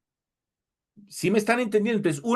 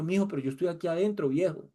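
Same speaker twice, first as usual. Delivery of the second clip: the Spirit within; 6 dB quieter, faster than usual. Retold or imitated. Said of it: "el Espíritu de pronto adentro diciendo".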